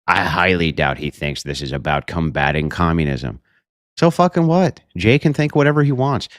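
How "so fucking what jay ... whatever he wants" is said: heated outburst. Real, not acted. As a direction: fire it back at the accuser. Angry retort about friend Jay.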